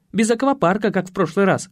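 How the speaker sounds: lightly voiced woman giving a warning, lifted pitch; наставляющая Татьяна. Татьяна наставляет осла, позже цитируется. (слегка повышенным голосом, наставительно)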